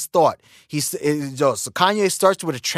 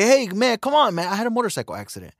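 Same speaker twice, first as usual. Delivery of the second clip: dismissive excuse; 4 semitones higher, faster than usual. Retold or imitated. Jerk brushes off question.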